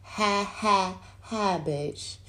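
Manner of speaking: mildly heated retort; arguing with him, half laughing; mock confrontation. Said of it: "And I be like".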